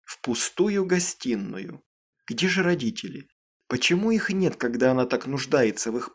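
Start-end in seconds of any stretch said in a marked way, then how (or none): none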